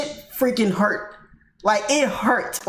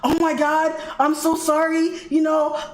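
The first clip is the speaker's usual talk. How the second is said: raised pitch, quick apologetic man's voice; apologetic guy; 5 semitones higher than usual. Retold or imitated. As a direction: lightly mimic his frantic sorry. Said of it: "And he's like".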